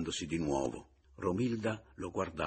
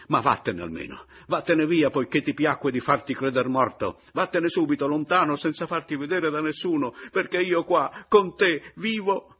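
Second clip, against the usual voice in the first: furious order; 9 semitones higher, 11 dB louder than usual. Acted. Husband ordering rival away.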